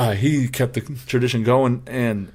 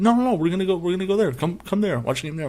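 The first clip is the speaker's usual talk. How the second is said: mimicking Kevin; 8 semitones higher than usual. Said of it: "he said".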